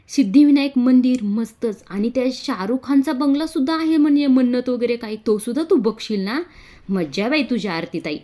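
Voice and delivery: high, loud and gushing with delight; a girl bubbling over about a dream trip to Mumbai; thrilled. Acted. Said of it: "आरची इथे फार खुश होत असते". (आनंदाने उत्साहित, उंच आणि मोठ्या आवाजात)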